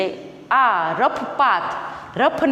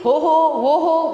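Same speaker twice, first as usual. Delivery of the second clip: high exclaimed whoop; mildly raised, higher-pitched cheer; calling out; 4 semitones higher than usual. Acted. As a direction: whoop it like the excited rider. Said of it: "ત્યારે તે શું બોલી ઉઠી?".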